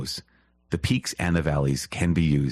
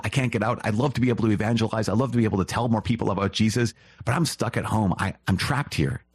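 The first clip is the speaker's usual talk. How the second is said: higher, fast voice of someone stuck at home; homebound lament; 5 semitones higher than usual. Retold or imitated. Imitating a housebound listener, higher and quick. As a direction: plead like a person trapped indoors.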